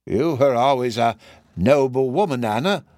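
lightly voiced old man; a measured, acted old husband's reply. Old man answering Anna over a cigarette, lightly voiced old man.

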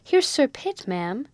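sudden high alarmed call; startled servant-girl warning; alarmed cry. Acted. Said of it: "crying out in an alarmed tone".

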